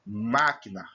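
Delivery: Máquina with strong MÁ at the start; stressed first syllable. Shown as a demonstration. Teacher showing the tonic syllable, stressing MÁ in Máquina. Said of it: "o má é forte".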